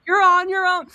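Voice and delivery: emphatic repeat. Retold or imitated.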